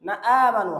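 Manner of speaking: না আমানু with a clear catch before 'aa'; short না, then a clean glottal onset on আমানু; careful hamza. Shown as a demonstration. Teacher showing the tidy hamza, correctly articulated. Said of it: "হামজাটা একটু গুছিয়ে পড়তে হয়".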